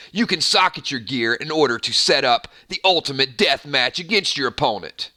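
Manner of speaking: lightly hammed salesman pitch; infomercial voice. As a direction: pitch the game like a late-night ad. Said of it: "infomercial voice".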